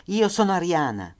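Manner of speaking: loud, high, desperate cry raising her hand; a mother shouting to save her daughters; mother's shout. Retold or imitated. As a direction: shout it out to be heard over the crowd. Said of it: "gridò in tedesco".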